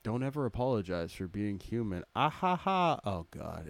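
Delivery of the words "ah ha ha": mock laugh. Shown as a demonstration. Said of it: "start your laughs with an A".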